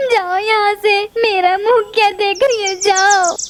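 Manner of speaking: a wounded bird crying and scolding her taunting friend; angry crying. Acted. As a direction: sob through the anger while shouting her away. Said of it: "तुम्हें रोना देखकर".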